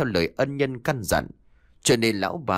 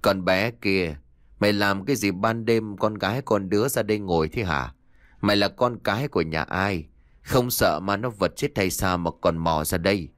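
put-on slurred, lower drunken questioning; 3 semitones lower than usual. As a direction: slur it like a tipsy old man. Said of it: "hỏi bằng giọng lè nhè sặc mùi rượu".

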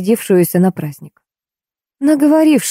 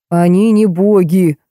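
barked retort; slower than usual. A narrator's reading. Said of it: "рявкнул Эскулап".

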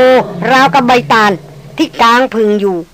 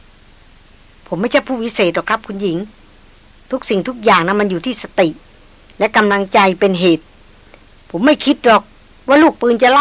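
calm hunter. Acted.

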